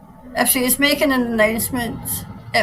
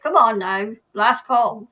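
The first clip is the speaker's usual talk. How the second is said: mock boarding call; 5 dB louder than usual. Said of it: "I was reading it as in the".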